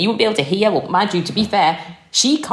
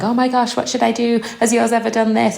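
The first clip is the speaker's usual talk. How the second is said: mock panicked parent; 4 semitones higher than usual. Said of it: "messages going".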